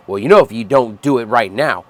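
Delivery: sneering impression of a slick recruiter; mock passive aggressive threat. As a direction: parody a passive aggressive pitch to re-enlist. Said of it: "passive aggressive threat bullshit".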